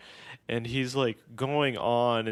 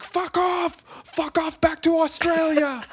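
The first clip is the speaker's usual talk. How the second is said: very high, loud outraged yell; imitated screaming; 4 dB louder than usual. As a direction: scream them away like an irate neighbor. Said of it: "The guy screamed".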